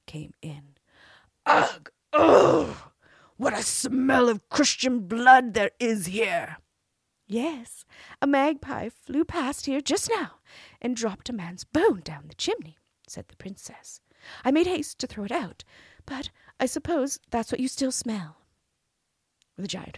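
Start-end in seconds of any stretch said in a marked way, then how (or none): 1.5-2.9 loud, high disgusted ugh; giant's disgusted grunt. Acted. 3.4-6.6 slow, loud booming giant roar; giant shout. Acted. Giant smelling blood. 7.2-18.4 high, sweet princess voice; cartoon princess. Princess answering the giant.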